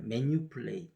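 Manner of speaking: manipulate said Korean-style, every syllable even as 매니퓰레이트; Konglish manipulate. Shown as a demonstration. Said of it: "이렇게 발음해요".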